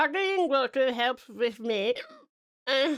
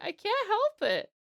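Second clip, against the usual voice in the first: put-on whiny kid; 9 semitones higher, slower than usual. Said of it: "And I'm like".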